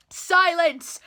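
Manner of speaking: sharp loud bark of a command; barked silence. A narrator's reading. Turtle king silencing Mac, a loud barked command. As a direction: snap it out like an angry king. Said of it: "barked back".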